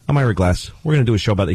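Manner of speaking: talks like a person. Retold or imitated. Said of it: "he just talks like this".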